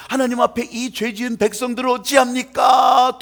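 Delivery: loud, impassioned cry to God; acted anguished plea. Ezra pleads to God for his sinful people, acted loud lament.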